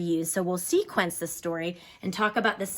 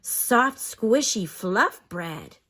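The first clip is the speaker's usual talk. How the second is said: expressive reading; much slower than usual. Shown as a demonstration. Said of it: "we can read that with some great expression".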